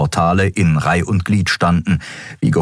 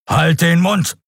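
raised, forceful command; thundered order; 10 semitones higher, slower than usual. A narrator's reading. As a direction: shut her up hard. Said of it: "donnerte er".

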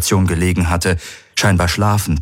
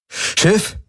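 calling out; 13 semitones higher than usual. A narrator's reading. Man summons the ship's computer, calling out. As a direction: call to the ship's computer, pitched up. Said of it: "rief Galen".

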